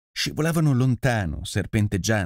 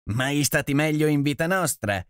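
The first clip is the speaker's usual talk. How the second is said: shout; 6 semitones higher than usual. A narrator's reading. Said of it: "gridò Marakot in risposta".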